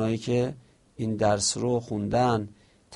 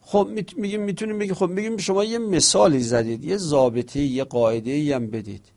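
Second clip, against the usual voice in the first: much higher, eager voice of a student pressing the point; challenging student voice; 5 semitones higher, 4 dB louder, faster than usual. Pretend. Teacher plays a student asking the author for a rule, higher and eager. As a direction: pipe up like a pupil demanding a rule.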